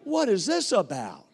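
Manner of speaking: sharp, high startled question; husband startled by his wife's question, surprised. Retold or imitated. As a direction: caught off guard, what is this. Shocked reply to wife.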